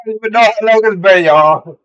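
talking through a burning mouth; pained, mouth on fire; mouth burning from spicy food. Real, not acted. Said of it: "But this shit is burning".

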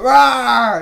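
big ferocious roar; dinosaur voice. Retold or imitated. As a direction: roar like a monster. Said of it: "the Hulk is supposed to be big and ferocious".

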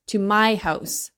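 "my" leaned on, slow and indignant; stress on MY. Real, not acted. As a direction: repeat it slowly, driving home the word "my". Indignant repeat for emphasis.

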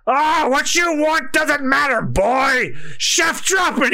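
slow, lightly voiced bossy chef; gruff old chef. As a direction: boss the boy around, mildly. Reading the chef's lines aloud.

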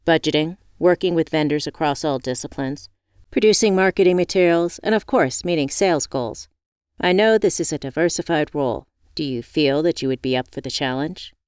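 brisk, businesslike interviewer voice; lightly voiced corporate boss; formal interviewer. Interviewer Mister Bragg voiced.

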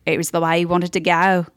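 matter-of-fact broad Australian; imitated Aussie shrug of a line; Australian accent. Family reacting to shark death, Australian accent. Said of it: "Australians are crazy".

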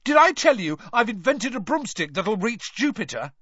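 high, loud dazed bragging; yelling boast. A narrator's reading. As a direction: shout it out, entranced. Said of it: "Ron was yelling".

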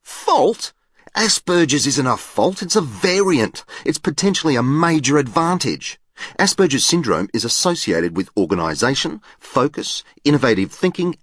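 indignant, high-pitched outburst. A narrator's reading. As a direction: object with rising volume and pitch. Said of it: "volume of my voice may have increased".

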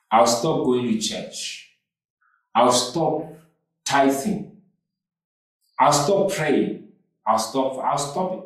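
half-mocking the grumbling faithful; sulky complaining. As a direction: whine like a sulking churchgoer making threats. People complaining to God.

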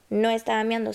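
no estaba miando repeated quietly. Shown as a demonstration. Clarifying to the audience, quiet repeat. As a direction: drop the no estaba miando to a soft aside. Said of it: "repeats line softer".

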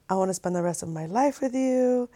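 softly retold romantic vow; tender retelling. Boyfriend declaring himself to his girlfriend, quietly tender. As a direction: imitate his proposal in a hushed, tender voice.

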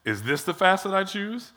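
dry mocking question, rising at "fast"; sarcastic God. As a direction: needle them with a sarcastic question. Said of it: "God is incredibly sarcastic here".

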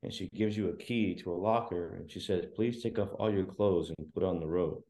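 hushed, gentle spa receptionist; mock soothing spa attendant; soft spa voice. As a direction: murmur it softly like a spa hostess. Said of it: "a lady in a really nice, soft voice".

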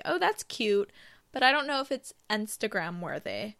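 put-on light uptalk valley girl; a touch of Valley Girl uptalk. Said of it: "like, Valley Girl voice".

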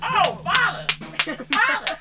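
high cries to father; mock pleading son. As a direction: cry out like a beaten boy. Acting a beaten son.

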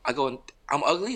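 put-on high-pitched, upset kid's cry; mock tearful squeal of a question; crying young son. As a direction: imitate a child's hurt disbelief. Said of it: "He starts crying more".

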